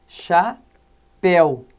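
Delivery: "chapéu" bem devagar, sílabas separadas, com força em "péu"; tônica final. Shown as a demonstration. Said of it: "recaem sobre a última sílaba da palavra". ("chapéu" silabado, o "péu" mais forte)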